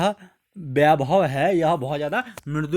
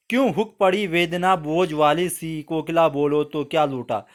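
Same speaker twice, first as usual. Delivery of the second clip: poem recitation. Acted. (धीमे, गंभीर कविता पाठ)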